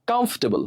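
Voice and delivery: কমফোর্টেবল squeezed to "kamf-te-bol"; correct pronunciation. Shown as a demonstration. Teacher repeating the right form, correctly pronounced. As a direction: drop the "or" in কমফোর্টেবল. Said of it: "এর উচ্চারণ কি হবে".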